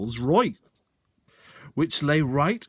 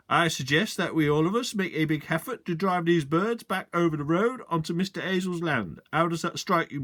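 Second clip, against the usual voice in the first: lightly voiced country policeman, a touch higher; sergeant addressing the men; 5 semitones higher than usual. Sergeant proposing a plan to the gathered men, lightly voiced. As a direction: put the suggestion to the gentlemen.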